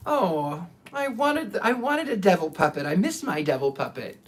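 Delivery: wistful retold pout, lifting then sinking; a touch of mock disappointment; mildly sad. Puppet owner missing the devil puppet, mildly sad. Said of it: "I was kind of sad".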